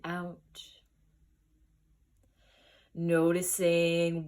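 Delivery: unhurried guided breathing, long pauses between phrases; guided meditation. Acted. Teacher guiding listeners into the breath, measured meditation voice. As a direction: lead listeners gently through noticing each breath.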